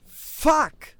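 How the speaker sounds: loud, high panicked curse; shocked shout. Acted. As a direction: yell it in sudden panic. Realizes he overslept.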